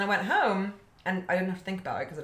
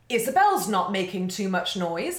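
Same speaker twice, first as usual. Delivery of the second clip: mock teacher's praise, rising high; teacher praising; 3 semitones higher, 4 dB louder than usual. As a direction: hold her up as an example. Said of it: "to be like".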